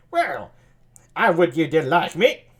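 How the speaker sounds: lightly sultry, teasing line; sultry Margaret. Acted. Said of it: "maybe sultry voice like that".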